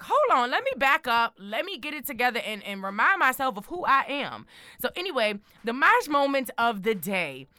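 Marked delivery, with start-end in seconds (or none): 0.0-4.5 pep talk. Retold or imitated. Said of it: "one of those things like".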